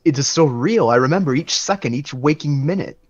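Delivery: acted bewildered protest, pitch rising and falling; distressed disbelief. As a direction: insist on the memory in mild anguish. Acted disbelief at shattering revelation.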